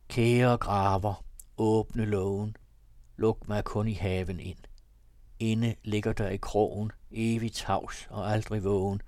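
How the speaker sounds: measured poetic reading; poem recitation. A narrator's reading. Reads a long poem.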